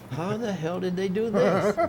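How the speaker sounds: high-pitched incredulous question; retold bafflement. Retold bafflement at finding the book.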